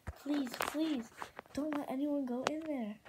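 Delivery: anxious, insistent begging; pleading. Acted. Moon begs friends to keep out, pleading. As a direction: beg them to listen.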